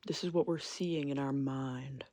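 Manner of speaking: unvoiced whisper of a shared fantasy; conspiratorial whisper to viewers. Real, not acted. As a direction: breathe it like a secret. Repeats line as a whisper.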